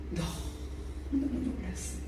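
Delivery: slow whisper of astonishment; hushed awe. Real, not acted. Preacher recalls receiving the cup, slow hushed awe. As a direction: let it fall to a slow whisper.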